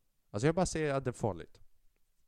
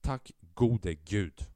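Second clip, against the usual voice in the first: relief; 3 semitones lower, 4 dB louder, much slower than usual. Retold or imitated. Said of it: "jag bara".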